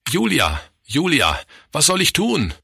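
high-pitched plea to his wife; desperate appeal with falling calls of the name; helpless despair. A narrator's reading. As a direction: plead helplessly, pitch climbing at the end.

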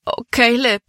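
high-pitched lament; wailing. A narrator's reading. Libby to Caleb after the wagon is gone, wailing. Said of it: "jammerte Libby".

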